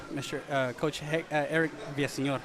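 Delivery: losing his voice, strained and soft; a voice that's nearly gone; voice giving out. Real, not acted. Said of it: "I'm losing my voice right now".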